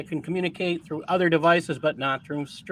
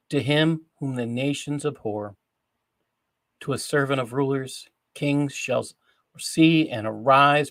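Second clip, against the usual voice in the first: solemn scripture reading; 4 semitones lower than usual. Acted. Host reads Isaiah to the audience, solemn scripture reading. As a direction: read the prophecy in deliberate phrases with long pauses.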